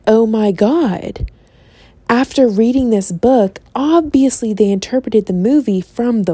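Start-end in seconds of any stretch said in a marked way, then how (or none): 0.1-1.3 drawn-out slow oh my God, in awe; slow awed gasp. Retold or imitated. Talking to herself about the book, slow awestruck gasp. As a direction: stretch it out like you're amazed. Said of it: "the other half of me was like".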